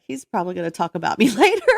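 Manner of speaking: half-laughing, fast; quick giggly guess about dad; laughing aside. Retold or imitated. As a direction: laugh it off as you rush it. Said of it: "I was like".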